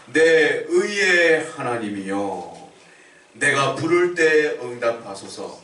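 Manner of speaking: slow, reverent plea; slow prayerful reading. Shown as a demonstration. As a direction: stretch every word like a plea to God. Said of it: "기도하고 있는 거예요".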